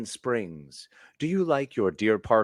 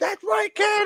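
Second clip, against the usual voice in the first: very high-pitched supportive scream. Picturing cheering for a daughter someday: imitating screaming. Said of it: "screaming with all of her merch on".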